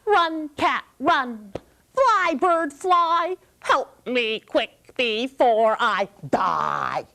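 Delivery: high, pleading chant that slows at the end; Sasha's cry for help. Acted. Sasha teaching the kids his call, pleading. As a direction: sing it out for help, slowing on the last line. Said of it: "He goes".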